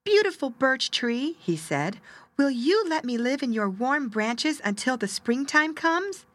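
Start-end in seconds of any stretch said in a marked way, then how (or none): 0.0-1.4 high, small bird's plea; pleading little bird. Acted. 2.4-6.3 high, small bird's plea; pleading little bird. Acted.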